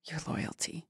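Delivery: a hushed, sinister hiss of a line; creepy whisper. Acted. Friend reading the stalker's menacing line, whispered.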